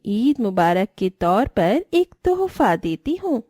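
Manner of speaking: slow, drawn-out coaxing from the dark; eerie luring voice. Acted. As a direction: lure the child in slowly, like a hidden witch. Stranger lures child at night. (धीमी, डरावनी बुलाती आवाज़)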